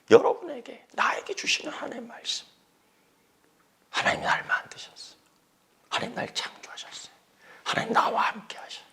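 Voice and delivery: soft unvoiced whisper; hushed prayerful whisper. Pastor leading the congregation, whispered affirmation. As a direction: murmur the truths like a prayer.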